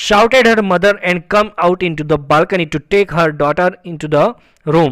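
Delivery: slow, measured English reading; story read-aloud. A narrator's reading. Teacher reading a story sentence to students, slow read-aloud. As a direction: read each phrase out slowly and deliberately.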